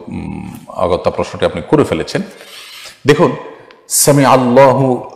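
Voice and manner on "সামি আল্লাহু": "সামি আল্লাহু" said slowly, with a full "হু" ending; correct pronunciation. Shown as a demonstration. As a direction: linger on "আল্লাহু", the hu clearly sounded. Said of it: "এটি হলো শব্দের সঠিক উচ্চারণ". ("আল্লাহু" ধীরে, শেষের হু স্পষ্ট করে)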